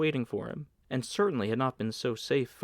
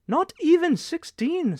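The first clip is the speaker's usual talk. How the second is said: surprised; 7 dB louder, slower than usual. Acted. Manageress surprised at his age.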